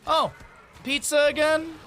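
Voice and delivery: high, loud mock judgy tone; a fake-innocent jab about dinner; passive aggressive. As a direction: Midwestern passive-aggressive sigh. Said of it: "a passive-aggressive statement like".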